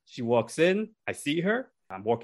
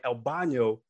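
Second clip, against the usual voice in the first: horrible Spanish; 6 dB louder, slower than usual. Retold or imitated. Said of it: "this is my horrible Spanish".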